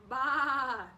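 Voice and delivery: loud bleating baa. Acted. Duck bleats loudly. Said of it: "The duck said".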